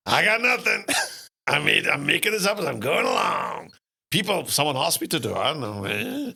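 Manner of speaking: high, loud, rushed protest; high-pitched flustered outburst; flustered inner panic. Retold or imitated. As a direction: blurt it out in a panic. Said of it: "I'm like".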